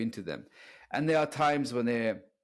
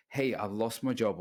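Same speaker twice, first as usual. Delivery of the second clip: steady, unbothered take on bad news; calm and strong. The strong man telling of a lost job, calm and steady. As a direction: say it like a man who can handle it. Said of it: "the strong one".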